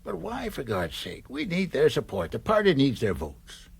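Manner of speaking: urgent, agitated objection; exasperated plea. Acted. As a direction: push back hard on him, baffled. Political adviser pleading with senator.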